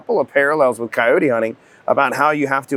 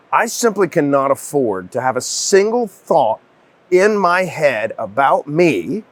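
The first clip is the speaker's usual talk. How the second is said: slow solemn quote; 2 semitones higher, slower than usual. Retold or imitated.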